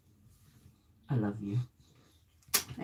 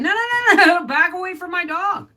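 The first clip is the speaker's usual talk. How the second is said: retold warning; 8 semitones higher than usual. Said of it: "I said".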